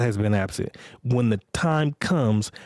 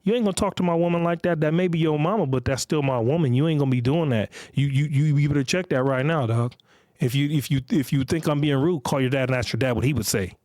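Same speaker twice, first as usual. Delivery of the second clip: put-on boyfriend scolding son; 3 semitones higher than usual. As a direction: lay down the law to the kid like a stern boyfriend. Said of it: "her boyfriend was like".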